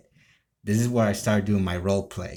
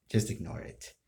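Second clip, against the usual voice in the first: whispered aside; 2 semitones lower, 6 dB quieter than usual. Real, not acted. Aside to someone off camera.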